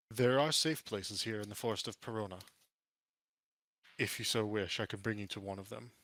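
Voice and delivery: lightly regal, composed offer; formal, measured offer to guide strangers; eloquent orc ranger. Acted.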